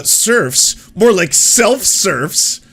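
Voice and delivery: high, loud, drawn-out corny punchline; mock dad joke. Mocking the Jimmy Dore crowd's corny dad-joke replies. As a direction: ham up the groaner pun. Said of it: "it was dad jokes".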